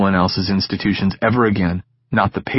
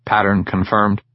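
metallic robot voice. Acted. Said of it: "in its metallic default voice".

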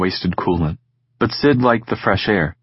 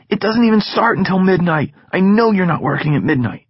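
put-on lightly higher, teasing young friend; Egan's voice, cocky; 11 semitones higher than usual. Egan needling Sid about school, teasing. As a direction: tease your friend about his tone.

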